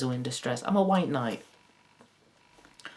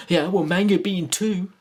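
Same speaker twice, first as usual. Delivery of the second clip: louder, higher mocking whine; psychopath; 6 semitones higher, 8 dB louder than usual. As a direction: jeer like a smug troll. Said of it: "some psychopath going".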